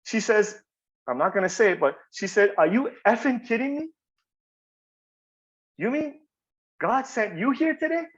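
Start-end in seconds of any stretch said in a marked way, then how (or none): 2.6-8.1 imitating a crying woman, pitched higher; high, incredulous question, a touch tearful; retold tearful disbelief. Client moved by his thanks asks him, mildly tearful. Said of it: "She starts crying".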